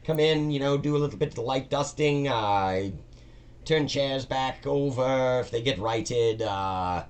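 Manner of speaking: a nervous new employee eager to please; timid dungeon cleaner. Acted. Todd explaining his cleaning job to Maggie, high and meek.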